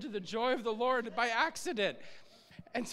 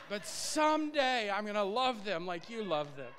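spoken prayer; 2 semitones higher than usual. Acted. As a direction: pray it out, word by word. Prays aloud to the Lord.

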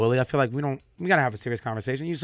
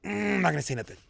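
holding back; 7 semitones higher, much faster than usual. Retold or imitated. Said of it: "I went".

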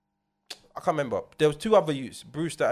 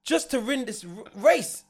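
high, loud, laughing disbelief; yelling at him half laughing; retold shout; 9 semitones higher, 6 dB louder than usual.

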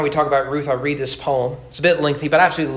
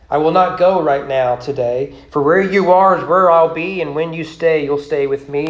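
Ruth; 5 dB louder than usual. Acted. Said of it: "She had a thing or two to say".

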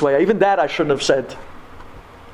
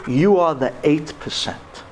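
slow, imitated German-accented verdict; deliberate German-accented put-down; German doctor; slower than usual. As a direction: pronounce it slowly with a German accent. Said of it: "I hear his voice in my head".

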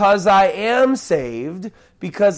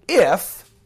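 "if," set apart by pauses and raised; stress on IF; 2 semitones higher, 3 dB louder than usual. Real, not acted. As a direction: lean hard on "if," and let it hang. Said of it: "a big if there".

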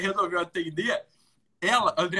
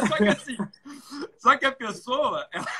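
laughing; 7 semitones higher than usual. Real, not acted. Laughing at the cashier's scolding.

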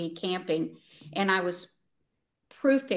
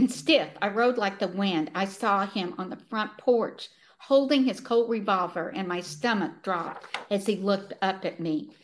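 measured, earnest book reading; story read aloud with clear phrasing; story narration. A narrator's reading. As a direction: read the sad passage aloud with gentle emphasis. Reads a book passage aloud.

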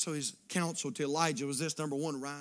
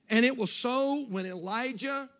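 loud, raised pulpit reading; forceful scripture reading; 9 semitones higher, 10 dB louder than usual. Acted. Preacher reads Elijah's story to church, loud proclamation. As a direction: proclaim the verse.

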